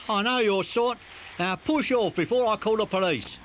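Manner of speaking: low, forceful warning; see the kid off with a low threat; threatening. Acted. Barrow man threatening to call the police, low angry voice.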